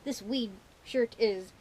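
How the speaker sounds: hammed-up pirate talk. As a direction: growl it like a pirate. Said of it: "today is Talk Like a Pirate Day".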